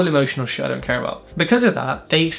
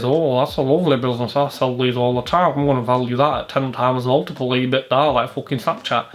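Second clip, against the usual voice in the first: lightly put-on Yorkshire broker voice; mock Yorkshire salesman patter; Yorkshire accent; 2 semitones lower than usual. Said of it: "that was my Yorkshire accent".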